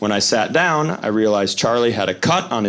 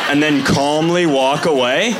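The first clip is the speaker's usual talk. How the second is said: mocking calm. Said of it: "that adult's response was just".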